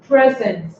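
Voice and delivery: "present" stressed on the first syllable. Shown as a demonstration. Teacher giving an example noun to students, first-syllable stress on "present". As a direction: hit the first half of "present". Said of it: "you stress the first part".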